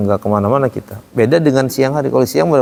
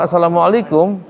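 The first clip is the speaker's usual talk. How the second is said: higher-pitched Arab-style salam; Arab greeting intonation; 4 semitones higher than usual. Shown as a demonstration. Teacher imitates how Arabs greet, Arab intonation. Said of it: "Orang Arab tuh kalau".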